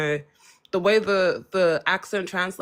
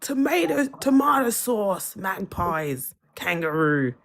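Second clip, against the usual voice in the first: Australian accent; slower than usual. Shown as a demonstration. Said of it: "Is that what you want me to sound like?".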